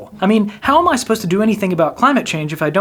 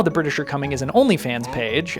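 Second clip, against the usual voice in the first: soft, lower, knowing mutter; quiet aside; 3 semitones lower, 6 dB quieter than usual. Pretend. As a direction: say it softer like a cheeky title. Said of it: "But now".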